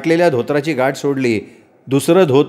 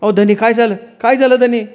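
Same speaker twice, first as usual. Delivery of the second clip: worried wife; 8 semitones higher than usual. Acted. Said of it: "म्हणाली".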